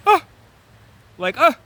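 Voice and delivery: short high exclaimed "ah!"; exasperated "ah!". Acted. Divine feminine reacting to Aries, exasperated cry. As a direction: burst out a sharp, mock-frustrated "ah".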